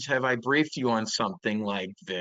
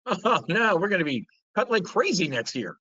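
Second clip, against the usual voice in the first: imitating Powell; 5 semitones higher than usual. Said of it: "he said what".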